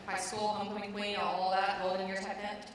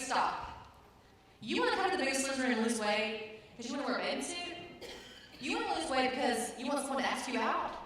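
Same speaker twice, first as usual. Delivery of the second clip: scolding trainer; 5 semitones higher than usual. Retold or imitated.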